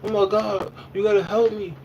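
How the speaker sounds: high panicked plea; high imitated panic; panicked mother. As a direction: echo her frantic call for help. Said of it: "she's like".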